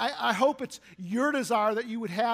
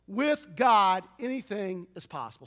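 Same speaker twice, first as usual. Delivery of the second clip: bold declaration; 3 dB louder than usual. Retold or imitated. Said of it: "the Father could say".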